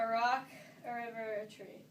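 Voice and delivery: solemn, measured recital; poem recitation. Acted. Reciting Maya Angelou's inaugural poem to friends, measured recitation. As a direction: recite it from memory, phrase by phrase.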